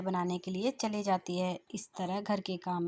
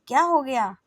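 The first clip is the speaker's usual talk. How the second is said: startled question; 6 semitones higher, 11 dB louder than usual. Acted. Mother-in-law startled by scream.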